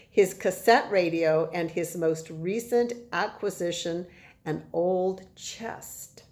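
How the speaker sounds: measured storytelling with stressed key words; reading to children. A narrator's reading. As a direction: read the chapter aloud with emphatic phrasing. Reads the chapter to children.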